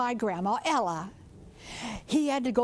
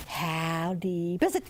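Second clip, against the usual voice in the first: little peeper frog call; 5 semitones lower than usual. Acted. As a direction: call out like a tiny frog at the creek edge. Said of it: "He'd call to the little peepers".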